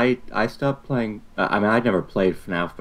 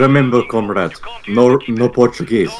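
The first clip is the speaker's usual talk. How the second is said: put-on Russian accent; 2 semitones higher, 7 dB louder than usual. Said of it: "speak in a Russian accent".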